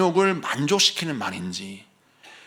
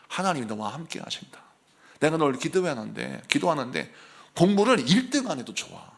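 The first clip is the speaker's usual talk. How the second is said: softer, lower, soothing mother; gentle encouragement; 3 semitones lower, 3 dB quieter than usual. Retold or imitated. Mother to a struggling child, softly reassuring.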